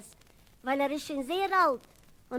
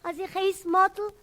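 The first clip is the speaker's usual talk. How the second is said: higher, whining protest; plaintive outburst; 6 semitones higher than usual. Retold or imitated. Boy whines to the man that they call him Lefzen. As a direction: plead like a hurt boy. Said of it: "Ich sag mir".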